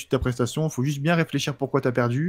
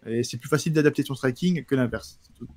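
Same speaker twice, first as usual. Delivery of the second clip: sluggish tired delivery; talking while worn out; tired speech; 3 dB quieter than usual. Real, not acted. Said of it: "j'ai l'impression d'être fatigué".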